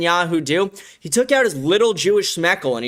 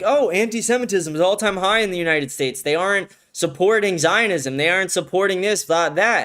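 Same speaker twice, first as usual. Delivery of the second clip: mock media pundit; 4 semitones higher than usual. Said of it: "They're like".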